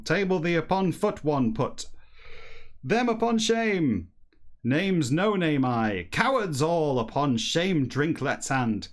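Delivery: a touch sillier, slow and drawn out for dialogue; lightly hammed-up character voice; slightly sillier voice. Streamer reading dialogue to chat, slightly sillier voice. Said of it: "read it in a slightly sillier voice when it's dialogue".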